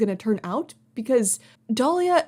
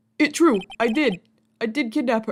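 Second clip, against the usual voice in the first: put-on dim, dopey, dumb boy voice. Voicing a character in a game with a dumb boy voice. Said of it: "the dumb voice is, uh, correct".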